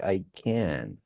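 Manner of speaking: "can" said full and clear at the end; low, soft "I can", full "can"; full can alone. Shown as a demonstration. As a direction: land on "can" with a full vowel. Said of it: "when it's, like, alone".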